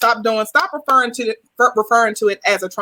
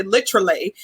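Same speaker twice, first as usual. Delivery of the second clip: British-style "literally", squeezed to "litch-rally"; mock British accent; 2 semitones lower than usual. Retelling a viral joke about British speech, mock British accent. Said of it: "a British, uh, accent".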